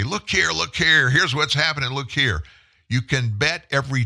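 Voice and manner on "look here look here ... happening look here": high, sing-song distraction call; a light mock huckster pitch; mock taunting. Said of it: "wave that right hand in our face and say".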